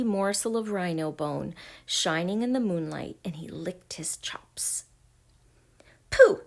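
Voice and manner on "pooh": very high, loud scoff. A narrator's reading. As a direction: burst out with squeaky disdain. Kip scoffs at the wolf.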